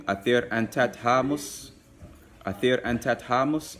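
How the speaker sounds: athir antat hamus spoken slowly; slow language demo. Shown as a demonstration. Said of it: "you would say".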